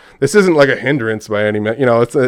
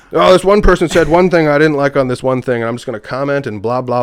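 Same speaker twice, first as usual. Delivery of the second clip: mocking troll voice; 5 semitones higher, 7 dB louder than usual. Mocking a petty online troll.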